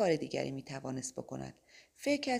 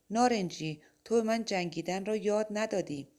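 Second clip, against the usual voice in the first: agitated protest; 5 semitones higher, 4 dB louder than usual. Acted. Mike protests to Orange.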